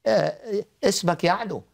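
earnest spoken prayer; praying aloud. Acted. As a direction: pray it from the heart. Leads prayer for caller.

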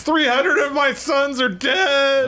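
slow, high-pitched bereaved wail; mock anguish. Submariner mourning three hundred sons, hammed-up wailing. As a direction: stretch it out as hammed-up agony.

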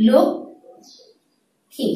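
লক্ষ্মী drawn out very slowly as lokkhi; slow demonstration. Shown as a demonstration. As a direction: stretch লক্ষ্মী slowly so each sound is clear. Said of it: "এর নির্ণয় হবে". (লক্ষ্মী ধীরে টেনে উচ্চারণ)

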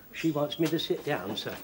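ordinary delivery

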